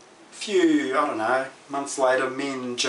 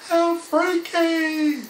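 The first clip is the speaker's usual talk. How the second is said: freaked out; 4 dB louder, much slower than usual. Real, not acted. Reacting to her own story.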